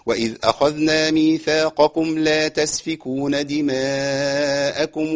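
slow tajweed recitation pausing at ثم أقررتم; slow recitation demo. Shown as a demonstration. Teacher shows where to pause and resume. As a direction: recite slowly, stop, then resume at ثم أقررتم. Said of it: "يعني أقرأها هكذا".

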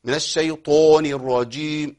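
الشيطان with the ط rounded toward "o"; over-round the ط in الشيطان; overdone heaviness. Shown as a demonstration. Teacher showing students the overdone version again. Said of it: "الهيئة دي مبالغ فيها".

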